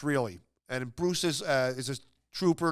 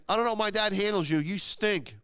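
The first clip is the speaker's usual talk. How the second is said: heckler yelling; 6 semitones higher than usual. Retold or imitated. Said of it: "But he kept saying".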